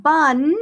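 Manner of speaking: "bun" said as a separate syllable, drawn out; "bun" held slightly, as the first half of a word; sounded-out syllable. Shown as a demonstration. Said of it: "you can sound out".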